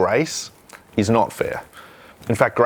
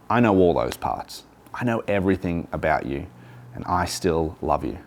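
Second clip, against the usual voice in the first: tender voice of grace; 4 semitones lower, 4 dB quieter than usual. Acted. Grace personified speaking tenderly.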